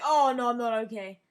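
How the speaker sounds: loud mock wail of pain; retold pained outcry. Injured storyteller realizing he is hurt, loud pained outcry. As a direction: cry out, re-enacting the hurt.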